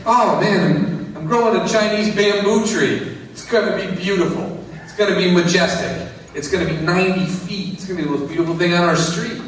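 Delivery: lightly voiced hopeful Tommy; eager Tommy. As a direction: brag about the tree with glee. Tommy voiced answering neighbor.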